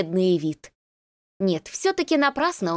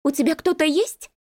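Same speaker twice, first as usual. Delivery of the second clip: jealous woman; 8 semitones higher than usual. Acted. Jealous girlfriend's question.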